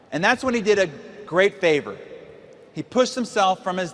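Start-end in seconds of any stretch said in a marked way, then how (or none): none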